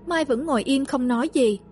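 ordinary delivery

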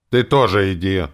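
a loud angry snap; barked. A narrator's reading. Hero snaps at the elf offering to pay, loud bark. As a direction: bark it at him. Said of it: "рявкнул я".

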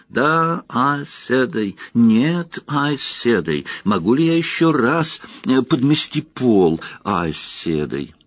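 high, slow squeaky meek voice. Acted. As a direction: play a timid novice in a squeak. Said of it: "она произнесла писклявым голосом".

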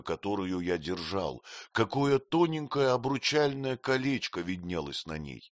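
plain reading voice

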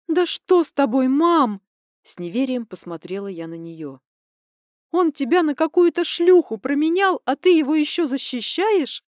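high, loud, incredulous; outraged disbelief. Acted. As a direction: demand an answer. Daughter angry at mother.

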